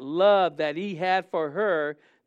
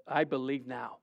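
softer, lower whispered-feel plea of I believe now; quiet plea; 5 semitones lower, 6 dB quieter than usual. Retold or imitated. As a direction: murmur it to yourself in awe. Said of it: "before God and saying".

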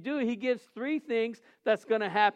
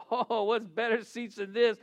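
laughing. Retold or imitated. Retold delight at better seats.

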